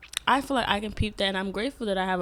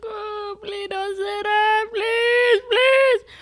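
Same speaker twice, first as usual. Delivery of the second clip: high, rising pleading cry, louder each time; 10 dB louder, much slower than usual. Retold or imitated. Retelling her sister's words, pleading in a loud cry. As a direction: beg her to take it back, building. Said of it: "I was just like".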